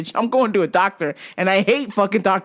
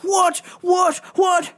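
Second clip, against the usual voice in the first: mock outrage; 10 semitones higher, slower than usual. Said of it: "He's like".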